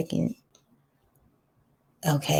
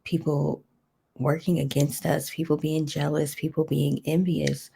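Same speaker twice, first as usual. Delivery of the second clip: earnest spoken prayer. Acted. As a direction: pray it out steadily.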